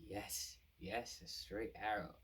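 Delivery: slow dawning agreement; lightly voiced dawning realization; realizing. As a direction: say it as the idea lands. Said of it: "he has an epiphany".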